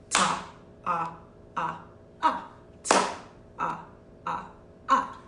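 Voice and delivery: evenly spaced "Ta, ah, ah, ah"; whole-note counting. Shown as a demonstration. Teacher demonstrates whole-note clapping, evenly counted. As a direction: count four beats, a syllable on each clap. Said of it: "So it looks like this".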